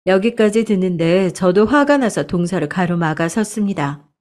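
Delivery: usual speaking voice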